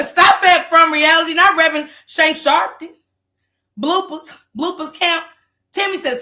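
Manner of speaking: usual speaking voice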